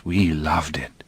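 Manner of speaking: slow, hushed whisper. Acted. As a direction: whisper it slowly, fondly. Tender memory, hushed.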